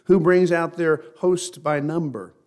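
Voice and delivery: slow, measured Bible reading with weighted words; scripture reading. Real, not acted. Preacher reads scripture to the congregation, slow and measured. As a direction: read it out solemnly, stretching the key phrases.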